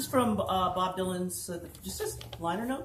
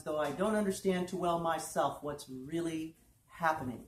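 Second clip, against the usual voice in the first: measured, deliberate literary reading; prose poem recitation; 3 semitones lower than usual. A narrator's reading. Performer reads a singer's liner notes to an audience, measured recitation. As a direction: recite it in even, weighted phrases.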